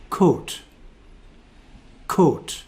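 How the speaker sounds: "coat" with a pure Scottish O; Scottish accent. Shown as a demonstration. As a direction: dictation read in Scottish accent. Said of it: "my natural pronunciation, Scottish accent".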